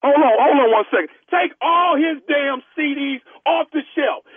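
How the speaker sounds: prank caller as store clerk. Pretend. Prank caller as store clerk pressing the star to come sign, lightly voiced clerk. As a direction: play a pushy store clerk on a prank call. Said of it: "Nephew Tommy".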